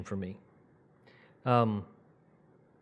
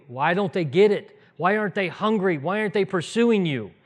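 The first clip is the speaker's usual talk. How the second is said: raised, higher pleading outcry; crying out loudly; 7 semitones higher, 8 dB louder than usual. Retold or imitated. Preacher retelling his outburst up front, crying out. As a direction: cry it out to the room, voice lifted. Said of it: "just crying out in a loud way".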